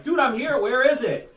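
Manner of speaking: high, loud bewildered demand; retold baffled call. Visitor searching for the hidden hatch, loudly baffled. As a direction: call out as if lost and exasperated.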